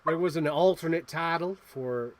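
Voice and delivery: slow, unsure Australian attempt; Australian accent. Shown as a demonstration. Host trying out a movie fact, Australian accent. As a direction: feel your way into Australian vowels. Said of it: "how to do an Australian accent".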